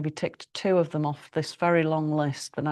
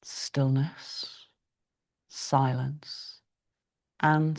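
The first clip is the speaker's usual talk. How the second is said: whisper; much slower than usual. Acted. Yoga teacher guiding stillness.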